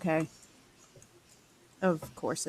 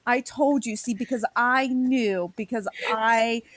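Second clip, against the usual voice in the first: vindicated mom. Pretend. Imagining mom finally proved right, drawn-out mock triumph. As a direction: crow about being right all along.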